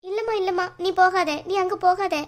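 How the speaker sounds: high, weepy pleading; tearful. Acted. Mother stopping daughter from going to the aunt, tearful pleading. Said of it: "ஒழுங்கா நீங்க முதல்ல அழாம".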